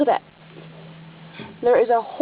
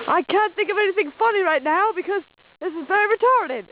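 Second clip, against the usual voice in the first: goofy put-on Australian voice; hammed-up Aussie explorer accent; mock Australian; 7 semitones higher than usual.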